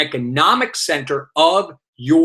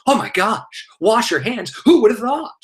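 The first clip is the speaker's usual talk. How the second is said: higher-pitched, hammed-up astonishment; mock amazement; 7 semitones higher than usual. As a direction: pretend this obvious advice is a revelation. Mocking surprise at obvious hygiene advice.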